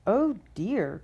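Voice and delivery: put-on a mild little baby-bear cry; lightly voiced small cub; wee baby bear. Baby bear finding his bed, touch of a cry. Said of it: "in his wee little voice".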